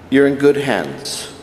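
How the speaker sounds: slow, gentle reassurance; softened sergeant. Retold or imitated. Sergeant softening toward the recruit, slow gentle reassurance. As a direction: let the sergeant's sternness melt away. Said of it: "a total softening of his countenance".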